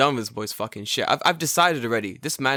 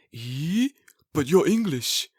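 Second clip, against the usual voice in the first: raised-pitch puzzled disbelief; mock surprise; 5 semitones higher, much slower than usual. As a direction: imitate a baffled, let-down listener. Retold shocked reaction.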